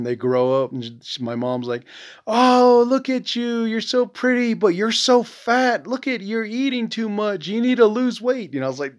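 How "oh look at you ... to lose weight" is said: high-pitched mock mom, scolding a granddaughter; imitating blunt mom. Son mimics mom scolding granddaughter about her weight, high mocking nag.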